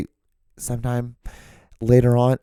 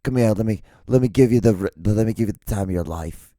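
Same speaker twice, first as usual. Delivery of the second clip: smoky tough guy. Retold or imitated. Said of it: "I just been smoking a lot of cigs".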